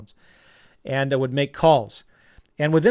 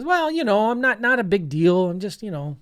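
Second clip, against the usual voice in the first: imitated modest Southern boy, pitched up; Greg; 6 semitones higher than usual. Southern guest plays down his deals to the teacher, imitated modesty. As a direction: play a humble good old boy, higher voice. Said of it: "He's got a Southern accent".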